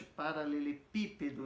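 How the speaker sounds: "paralelepípedo" with the weight on "pí"; stress on PI. Shown as a demonstration. Teacher repeating the proparoxytone example, stressing "pí" in "paralelepípedo". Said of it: "esse pi é mais forte".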